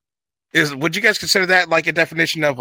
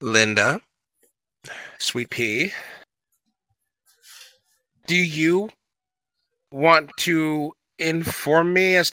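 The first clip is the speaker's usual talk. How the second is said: sweet pea voice hiding fury; mock sweet menace. Sweetly menacing question to Linda.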